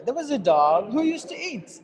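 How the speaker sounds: slight dip after DOG, then on into "who used to eat"; dip mid-sentence. Shown as a demonstration. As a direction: give a little dip between DOG and WHO. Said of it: "give a dip here".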